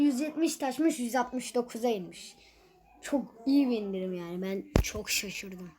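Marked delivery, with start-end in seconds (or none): 3.0-5.7 deadpan fake enthusiasm about a bad discount; sarcastic. Gamer mocking the tiny Gale discount to viewers, deadpan sarcasm. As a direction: say "Çok iyi bir indirim yani" with dry mock praise, meaning the opposite. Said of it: "Bu arada dalga geçiyorum".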